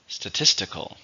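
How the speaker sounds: "Statistical" with the stress on TIS; stress on second syllable. Shown as a demonstration. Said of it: "stresses on the second".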